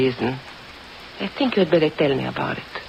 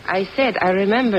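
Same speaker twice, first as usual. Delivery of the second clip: irritated; 3 semitones higher than usual. Acted. Countess irritated, repeats herself.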